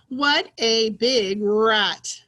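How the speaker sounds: loud, very slow excited read-aloud. Shown as a demonstration. Teacher reading about the rat for pupils, excited. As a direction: belt out each word separately. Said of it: "say it in an excited way".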